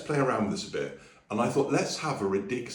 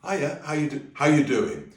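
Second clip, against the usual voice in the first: casual greeting; 8 semitones higher, 6 dB louder than usual. Shown as a demonstration. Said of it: "or if you go".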